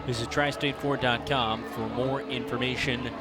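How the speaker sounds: ad read. Acted. Sponsor ad read.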